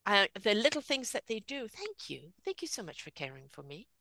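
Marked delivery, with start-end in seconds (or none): 1.7-3.9 soft thanks. Retold or imitated. Parent thanking child.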